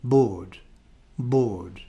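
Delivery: "Board" twice, the same long RP O; RP vowel. Shown as a demonstration. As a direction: say "board" in RP, no R sound. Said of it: "in R P are pronounced the same".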